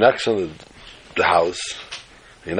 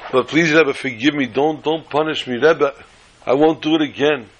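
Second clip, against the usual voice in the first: pleading; 6 semitones higher than usual. Acted. Begging not to be punished.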